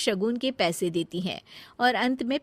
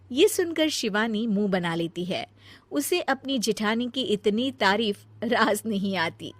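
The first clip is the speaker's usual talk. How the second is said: usual speaking voice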